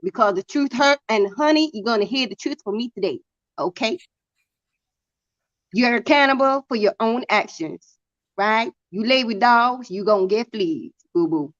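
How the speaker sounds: sassy put-on Southern sermonizing; Southern accent. Woman telling honey the truth today, put-on Southern accent. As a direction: preach hard truths with a Southern twang. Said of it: "My southern accent is pretty good".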